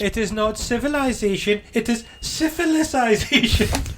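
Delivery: high, theatrical professor voice; Van Helsing impression. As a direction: declaim it like a pompous doctor. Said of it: "What a stupid fucking line".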